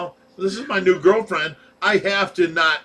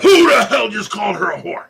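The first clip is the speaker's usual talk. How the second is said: loud, higher confrontational yell; angry challenge; 4 semitones higher, 8 dB louder than usual. Retold or imitated. Teller confronting his date's hecklers, angry shout. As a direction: bellow it at the whole table, acted out.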